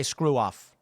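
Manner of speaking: low, gruff voice of a rude stranger. Retold or imitated. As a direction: snap it off like a grumpy passer-by. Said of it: "nine out of ten are gonna say".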